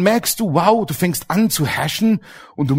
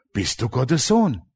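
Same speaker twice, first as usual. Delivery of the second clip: slow, coaxing devil question; devil's slow taunt; slow tempting devil; 5 semitones lower, 5 dB quieter than usual. Retold or imitated.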